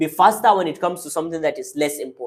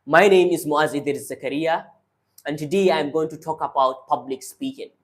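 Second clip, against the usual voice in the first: lower, grounded diaphragm voice; calm low voice from the diaphragm; speaking from the diaphragm; 3 semitones lower than usual. Shown as a demonstration. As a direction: bring it down and speak from the belly. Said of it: "But then if I take it down, I speak like this".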